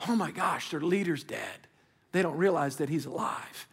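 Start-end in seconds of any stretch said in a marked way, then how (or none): 0.1-1.7 low, subdued imitation of frightened disciples; scared, hushed quote. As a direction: voice their fear low, with restraint. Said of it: "They're scared".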